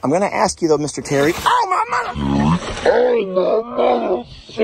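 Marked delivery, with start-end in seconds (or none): 1.3-4.6 startled cry. Real, not acted. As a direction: cry out after a scare. Startled by the animal's jump.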